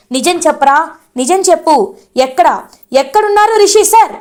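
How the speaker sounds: imitating a furious shout, not full volume; mock yelling. Vasudhara demanding the truth from Shailendra, mock yell. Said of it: "గట్టిగా అరుస్తుంది వసుధార".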